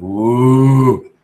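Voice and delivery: a loud drawn-out ooh, then teasing; hammed-up eager reaction to the email; playful mock surprise, then a sly question; mock excited. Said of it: "I was like".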